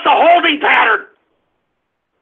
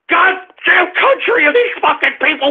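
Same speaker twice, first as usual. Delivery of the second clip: normal talking voice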